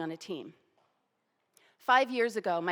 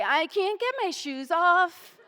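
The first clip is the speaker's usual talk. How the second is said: higher, louder, slow and desperate; panicked admission; 9 semitones higher, 10 dB louder, slower than usual. Retold or imitated. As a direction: plead out of pure panic. Narrator panicking, stuck on laces.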